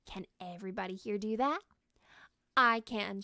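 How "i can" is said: put-on loud eager child's shout. Boy answering his mother, loud eager shout. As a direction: call it out proudly. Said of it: "shouted Eric".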